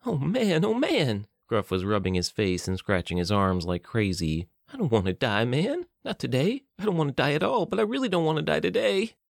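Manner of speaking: very high, frantic panicking; panicked whine. Acted. Gruff panics about dying, very high frantic whine. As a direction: spill it out in rising terror.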